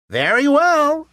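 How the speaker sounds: very high squeaky pig refusal; little pig voice. A narrator's reading. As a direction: squeal it out defiantly. Pig agrees.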